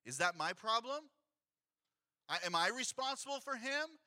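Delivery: mild mock-sarcastic shrug of a question; lightly sarcastic Cain. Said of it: "He's like".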